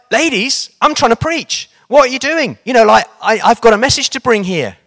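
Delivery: high, pleading mock protest; a preacher fed up at being interrupted, pitched high; interrupted preacher protesting to the old ladies, exasperated and high. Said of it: "And he's like".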